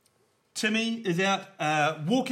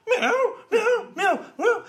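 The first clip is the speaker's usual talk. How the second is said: cat meowing; 6 dB louder, much slower than usual. Retold or imitated.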